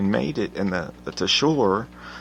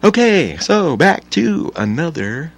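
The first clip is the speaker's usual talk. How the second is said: sudden loud reset; 7 semitones higher, 8 dB louder than usual. Real, not acted. Loud jump back to topic.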